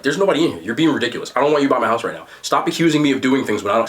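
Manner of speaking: mildly deadpan retold denial; Terminator-like emotionlessness. Woman dismissing her boyfriend's accusations, lightly imitated emotionless denial. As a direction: deny it evenly, with no emotion. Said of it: "like the Terminator type of emotion".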